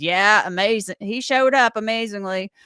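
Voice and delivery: sarcastic son, lightly done; Billy voice. Retold or imitated. Host in her Billy voice mocking the lawyer, lightly done. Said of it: "I'll do it in my Billy voice".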